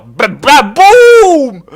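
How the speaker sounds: loud mouth explosion ba ba boum; explosion noise. Pretend. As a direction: shout a cartoon explosion. Explosion sound effect.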